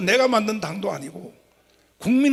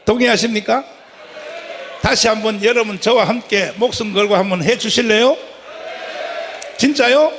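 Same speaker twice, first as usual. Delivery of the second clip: shouted appeal to the crowd; rally the crowd at full voice; roaring rallying speech; 4 dB louder than usual. Real, not acted. Rally speaker rousing crowd.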